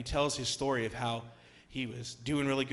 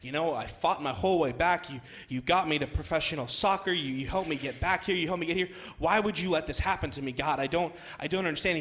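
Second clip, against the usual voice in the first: mildly upset plea, slightly higher; 4 semitones higher than usual. Retold or imitated. Injured player questions God in his crisis of faith, upset. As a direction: voice a touch of bewildered protest to God. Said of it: "'cause he's so upset".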